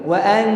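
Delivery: "Wa an" with a held nasal N; dengung. Shown as a demonstration. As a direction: hum through the N of "Wa an". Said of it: "N tapi dengung". ("Wa an" dengan huruf N didengungkan)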